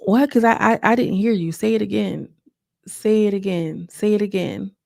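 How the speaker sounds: feigned not hearing. Retold or imitated. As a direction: imitate her pretending not to hear. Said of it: "Taseki sitting there saying".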